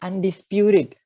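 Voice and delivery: "Undisputed" with a flapped t: andispjuried; the t in "Undisputed" softened to a flap; model pronunciation. Shown as a demonstration. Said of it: "itu dibacanya undisputed".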